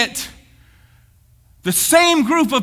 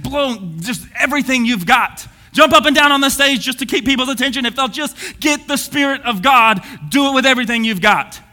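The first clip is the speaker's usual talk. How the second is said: excited preaching. Real, not acted. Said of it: "Getting real excited".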